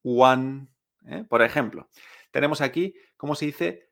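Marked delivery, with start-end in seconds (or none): 0.0-0.7 WAN drawn out, Spanish-style open a; pronunciation demo. Shown as a demonstration. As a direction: model WAN clearly for a learner. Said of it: "Con la mayoría de sonidos diremos".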